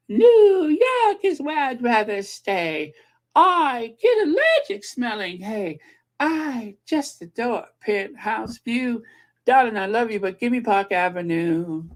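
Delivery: put-on camp it up with a Hungarian accent; Zsa Zsa Gabor accent. Vlogger singing Green Acres in a Hungarian Gabor accent. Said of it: "that Zsa Zsa Gabor accent".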